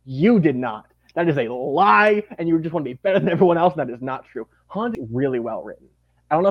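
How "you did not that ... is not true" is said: mock accusation. Telling off a fan who claims they guessed, mock accusing. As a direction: call out the imagined know-it-all in playful outrage. Mock scolding an imagined know-it-all.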